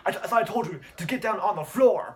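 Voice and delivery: high mock yell; faked threatening shout. Boy faking a crime scene for the phone, high yell. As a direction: act out yelling a staged order. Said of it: "he says that to the phone".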